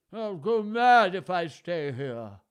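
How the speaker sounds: loud, slow, desperate gasp; hammed-up frantic old king. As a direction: gasp it out in panic. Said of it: "he gasped".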